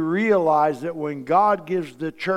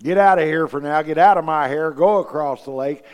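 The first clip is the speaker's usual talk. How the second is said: firm command; 6 dB louder than usual. Retold or imitated. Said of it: "He said".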